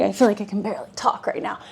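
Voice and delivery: breathless, quick, fading words; gasping between words mid-workout; out of breath. Real, not acted. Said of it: "You can tell I'm out of breath".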